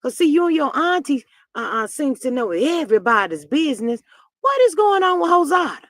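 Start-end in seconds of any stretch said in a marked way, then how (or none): 4.4-5.8 higher, loud demanding shout; loud nosy demand. Real, not acted. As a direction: yell the question out. Demanding gossip, calling out.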